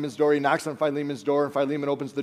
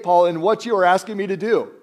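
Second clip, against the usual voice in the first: a touch louder, incredulous complaining; indignant protest; 3 semitones higher, 5 dB louder than usual. Retold or imitated. Philemon objecting to Paul's request, mildly indignant. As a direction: protest to Paul as if it's absurd.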